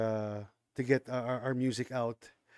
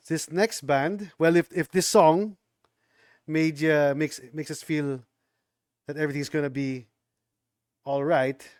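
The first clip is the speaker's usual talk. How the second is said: put-on Jamaican accent; 4 dB louder than usual. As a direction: lay on a bad Jamaican accent. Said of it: "That's a terrible Jamaican accent".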